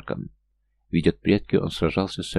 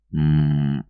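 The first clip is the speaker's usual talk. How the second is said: dreamy moan; 3 semitones lower, 3 dB louder than usual. A narrator's reading. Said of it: "невнятно простонал он".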